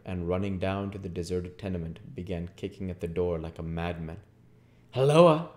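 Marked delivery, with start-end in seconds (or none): 4.9-5.5 loud, high hail; calling out. Acted. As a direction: call out to an unexpected intruder. Hunchback hails the intruder.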